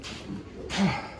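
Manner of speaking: voiceless puffing breath out from sciatica pain; real huffing sigh. Real, not acted. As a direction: let the air out in a tired huff. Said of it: "I'm huffing and puffing".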